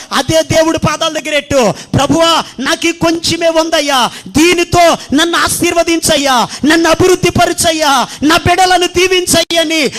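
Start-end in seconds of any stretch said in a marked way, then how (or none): 2.0-9.9 crying out in prayer. Shown as a demonstration. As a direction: build the plea towards a shout. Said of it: "దేవుడికి మొర్రపెట్టు".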